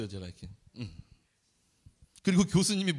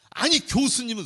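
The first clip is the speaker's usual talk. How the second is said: inner grumble; 6 semitones higher, 6 dB louder than usual. Retold or imitated. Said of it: "속으로 한 말이에요".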